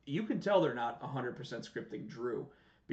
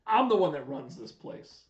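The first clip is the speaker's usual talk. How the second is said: mock Roman rant; 4 semitones higher, 7 dB louder than usual. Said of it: "retelling Roman's backstage rant".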